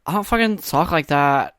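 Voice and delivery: lightly imitated girlfriend protesting; mock girlfriend voice. Girlfriend objects to the impression, mock protesting voice. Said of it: "she's gonna hear it and be like".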